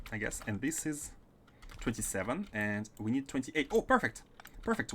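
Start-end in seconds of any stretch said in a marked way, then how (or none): 3.7-4.9 pleasantly surprised. Real, not acted. Streamer finds the count fits one belt, pleasantly surprised. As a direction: exclaim it, real delighted surprise.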